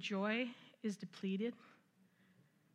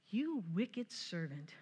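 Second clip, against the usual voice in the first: stern rebuke; 4 semitones lower, much slower than usual. Acted. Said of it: "and he says".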